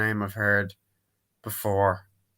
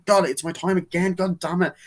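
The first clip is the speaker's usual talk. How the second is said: mock irritated outburst; 8 semitones higher than usual.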